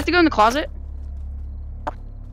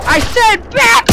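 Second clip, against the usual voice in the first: commanding shout; 5 semitones higher, slower than usual. Real, not acted. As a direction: order it to back off. Shouting at zombie.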